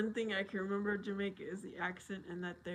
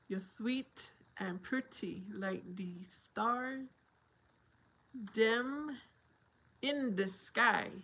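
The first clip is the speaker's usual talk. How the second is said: careful slow reread; slower than usual. Shown as a demonstration. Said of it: "let me, uh, let me s-, try".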